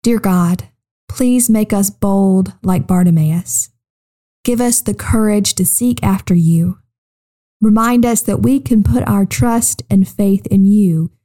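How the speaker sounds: calm, measured praying voice; children's prayer. Acted. Host praying with young listeners, calm prayer. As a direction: pray simply and unhurriedly.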